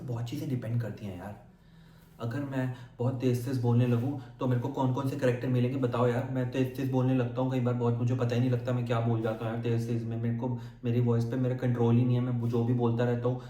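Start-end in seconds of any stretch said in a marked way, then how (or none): 6.3-13.4 fast, rushing the words; mild rushed nervous demo; fast nervous talk. Shown as a demonstration. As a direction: gabble like a nervous talker. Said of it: "आपको लग रहा है ना कि मैं nervous हो रहा हूँ".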